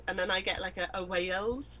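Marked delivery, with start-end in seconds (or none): 1.0-1.8 "Wales" with a Welsh twang; Welsh accent. Shown as a demonstration. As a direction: let a Welsh lilt into "Wales". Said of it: "which is quite a Welsh accent".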